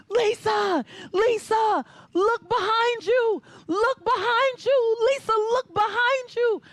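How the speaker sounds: high, loud, slow call across the pool; coach screaming. Retold or imitated. Coach yells to swimmer from the pool deck, loud call. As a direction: yell her name to make her turn. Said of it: "My coach is screaming".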